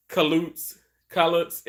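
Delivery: light Southern accent on Kaloots. Shown as a demonstration. Live-streaming to viewers, saying Kaloots with a light Southern accent. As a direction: drawl Kaloots the Southern way, gently. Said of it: "in my southern voice".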